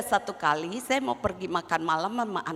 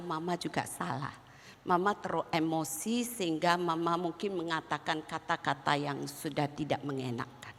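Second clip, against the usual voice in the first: tearful apology; 4 semitones lower, 7 dB quieter than usual. Retold or imitated. Crying mother apologizes back.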